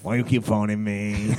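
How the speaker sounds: slow, drawn-out, slightly Welsh lilt; plaintive complaint in a vague Welsh accent; Welsh-tinged accent. Acted. Host on a pretend phone call, accidental Welsh lilt. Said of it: "go a bit Welsh then".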